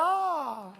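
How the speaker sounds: mock cry echoing the patient; imitated shout. Doctor copies the lady patient's cry, high mock shout. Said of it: "he also shouted".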